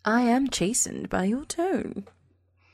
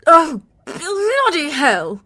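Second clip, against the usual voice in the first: slow, raised cry of exasperation; appalled outburst; 4 semitones higher, 5 dB louder, slower than usual. Acted. Woman learning lover has a child, appalled. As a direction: curse in dismay, drawn out and higher.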